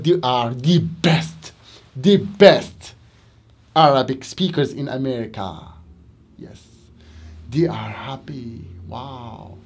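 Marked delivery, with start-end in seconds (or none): 6.4-9.6 hushed whisper; quiet whispered aside. Acted. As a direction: whisper it softly. Whispered aside about students.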